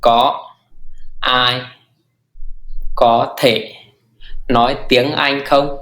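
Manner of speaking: slow nói tiếng Anh không; teacher modelling slowly; slow model phrase. Shown as a demonstration. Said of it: "Thì lùi nhất là thì".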